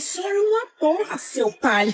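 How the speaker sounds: laughing retort. Retold or imitated.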